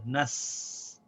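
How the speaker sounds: soft "nas" as one syllable; quiet syllable nas. Shown as a demonstration. Teacher softly repeating "nas". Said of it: "We pronounce them together".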